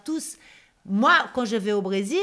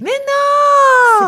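laughing protest; 12 dB louder than usual. Real, not acted. Laughing protest at interviewer's question.

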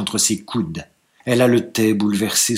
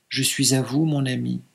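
softer, submissive and resigned; 6 dB quieter than usual. Acted. Bride repeating her consent, softly resigned. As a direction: give in quietly. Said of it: "mais soumise et résignée".

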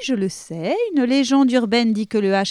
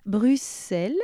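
Russian accent; 3 semitones lower, slower than usual. Shown as a demonstration. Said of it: "j'ai fait l'accent".

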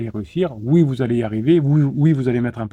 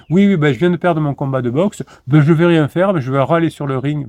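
louder mock grumbling of a beaten boxer; sulky loser; 3 semitones higher, 5 dB louder than usual. Boxer who just lost his fight, mock sulking. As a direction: play the sore loser, protesting loudly. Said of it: "Il n'y a pas un truc dit".

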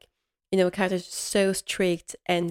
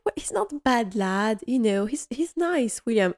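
imitating Mrs Patmore; 4 semitones higher than usual. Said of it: "Missus Patmore's like".

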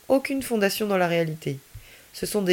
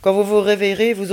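slightly louder, understated hypnotic command; a touch of the strange voice; 6 dB louder than usual. Acted. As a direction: Ami giving the frozen policemen a hypnotic command, lightly strange. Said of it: "avec cette même voix étrange".

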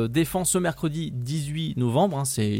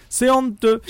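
mock outrage laughing; 9 semitones higher, 6 dB louder than usual. Mock outrage at joke law.

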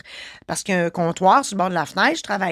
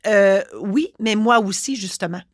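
curt rude tone. Retold or imitated. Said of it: "d'un ton très bête".

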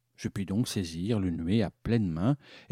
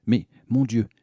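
mouth full; 6 dB louder than usual. Pretend. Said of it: "qu'il est difficile de parler lorsqu'on a les dents collées".

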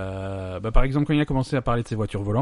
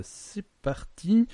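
drawn-out announcer; 10 semitones higher, much slower than usual. Acted. Launching the topic.

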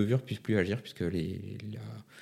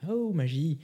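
mock amazement; 8 semitones higher, slower than usual. Mock magic exclamation.

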